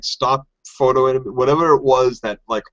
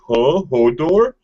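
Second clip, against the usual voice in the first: acted bewilderment; 4 semitones higher than usual. Voicing Hodor's helpless look at Bran, acted bewilderment. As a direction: play a mock-lost Hodor.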